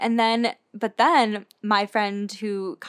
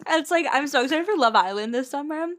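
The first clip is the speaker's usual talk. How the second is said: put-on British accent; 2 semitones higher than usual. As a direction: mimic a British dating-show voice. Parodies British reality show talk.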